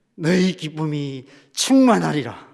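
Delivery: joyful voice, full of joy. Speaker repeats the scripture words again for the listeners, joyful voice. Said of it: "그 기쁨이 안 느껴지십니까? 다시 한번 해볼까요?".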